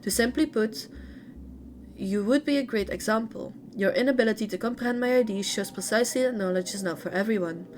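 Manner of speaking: lively read-aloud intonation. A narrator's reading. Streamer reading a character's story to viewers, read-aloud narration. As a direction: read game lore out in phrases.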